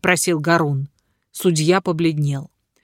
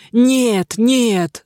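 roared denial; 5 semitones higher than usual. A narrator's reading. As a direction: bellow the denial in alarm. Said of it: "заревел судья".

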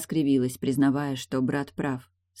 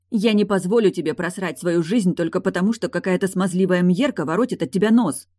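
heated, louder sister's outburst; exclaiming; 4 semitones higher, 5 dB louder than usual. Acted. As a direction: cry it out to shake him. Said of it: "воскликнула Тильда".

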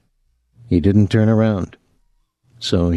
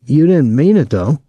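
higher, louder plea; pleading; 6 semitones higher, 4 dB louder than usual. A narrator's reading. Boy begging the cook not to end it, pleading. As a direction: plead with her to take it back. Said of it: "Thomas pleaded".

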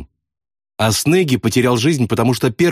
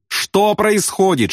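high, drawn-out cry of alarm; wailing yell; 9 semitones higher, slower than usual. A narrator's reading. Airman hit by flak shards, wailing in alarm. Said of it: "и он завопил".

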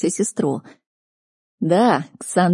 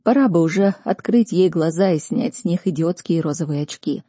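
ordinary delivery

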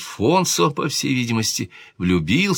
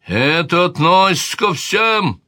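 king boiling over; 9 semitones higher, slower than usual. A narrator's reading. King Alfonso lashing out at his sister in anger. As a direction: erupt in fury, word by word. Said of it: "вскипел король Альфонсо".

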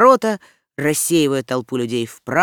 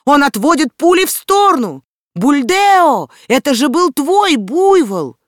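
loud, much higher frantic shout; crowd yelling; 9 semitones higher, 7 dB louder than usual. A narrator's reading. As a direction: scream it over the din. Villagers keep shouting at Mowgli.

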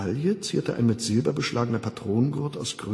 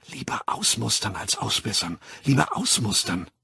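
hypnopaedic slogan. Acted. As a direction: repeat it gently like a recording. Schlafschul-Parole. (leise eingetrichterte Parole)

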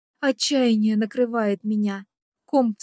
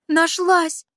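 high, loud cry of relief; breaking into a shout; 7 semitones higher, 6 dB louder than usual. A narrator's reading. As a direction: shout it out before you can stop yourself. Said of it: "невольно срываюсь на крик".

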